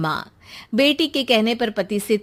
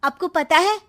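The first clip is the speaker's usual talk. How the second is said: tattling daughter; 8 semitones higher, 5 dB louder than usual. Acted. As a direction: spill the brother's secret with dramatic emphasis.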